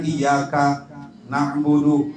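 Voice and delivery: iyyaka, a pause, then na'budu; needless pause. Shown as a demonstration. Teacher shows what isn't needed, exaggerated pause. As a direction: separate iyyaka from na'budu with a gap. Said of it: "Nggak usah dijeda kayak gitu".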